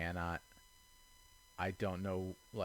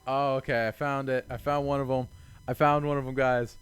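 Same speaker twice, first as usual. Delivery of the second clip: 1 excited discovery; 6 dB louder than usual. Real, not acted. Finally finds a hidden puzzle piece.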